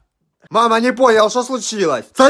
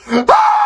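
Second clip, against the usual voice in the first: high shrill scream of shock; startled scream; 4 dB louder than usual. Acted. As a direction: scream at the mirror. Sees pimple, screams.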